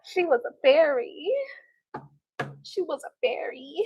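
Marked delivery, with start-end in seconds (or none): 2.6-3.8 soft, whispery echo; hushed repeat. Acted. Streamer repeating a quoted line, whispery echo. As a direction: repeat it under the breath, softly.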